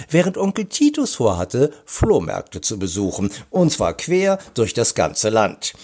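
lively storybook reading with swooping stresses; story narration. A narrator's reading. Author reads a detective story to children, animated narration. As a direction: read it out expressively for young listeners.

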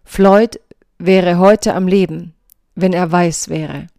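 slow, emphatic quoted statement; clear, pointed statement. Retold or imitated. Reader quoting the mayor's CBS interview, clear and pointed. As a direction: spell it out slowly and pointedly. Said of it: "formuliert er deutlich".

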